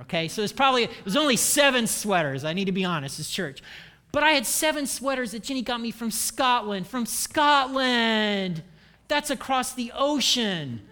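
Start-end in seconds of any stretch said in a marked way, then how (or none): 4.1-10.8 proud exclamation. Acted. Boasting about Scottish sweaters.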